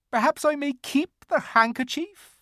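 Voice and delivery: a gentle faun giving in. A narrator's reading. Faun's character voice.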